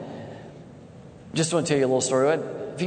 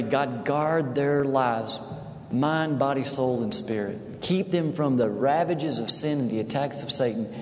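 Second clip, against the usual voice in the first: quoted prayer; 2 semitones lower than usual. Acted. Praying for grandsons.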